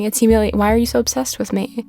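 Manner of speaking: breathless from talking a lot; running short of air mid-rant; out of breath. Real, not acted. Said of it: "Why am I out of breath?".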